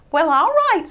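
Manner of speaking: high, uneasy little mouse voice; hesitant Christopher. Acted. Christopher unsure about leaving his new sled. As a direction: hold back, unsure.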